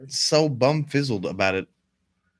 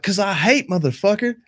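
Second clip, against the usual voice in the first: high mock answer; 7 semitones higher than usual. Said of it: "It's like".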